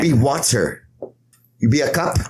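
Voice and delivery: deliberate fake Chinese accent, phrase by phrase; mock Chinese-accented philosophy, spaced out; Bruce Lee. Martial arts master teaching how to be water, lightly put-on Chinese accent. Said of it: "That's how he says it".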